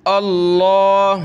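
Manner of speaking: अल्लाहुम्मा with a full, heavy Allah. Shown as a demonstration. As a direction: say अल्लाहुम्मा with the lam thick. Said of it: "इसको लफ्ज़ अल्लाह को मोटा करेंगे". (मोटा अल्लाह पढ़ें)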